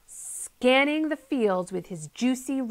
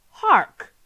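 sudden loud call, higher; loud Hark; 6 semitones higher, 11 dB louder than usual. A narrator's reading. Friday hears something coming, calls out loudly. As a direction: call out Hark! to alert everyone.

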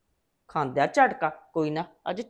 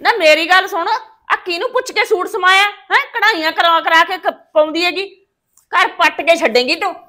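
scolding; 5 semitones higher than usual. Acted. Mother-in-law scolds daughter-in-law.

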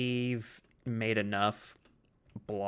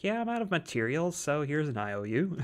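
Herobrine voice; 5 semitones higher than usual. Retold or imitated. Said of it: "Herobrine's just like".

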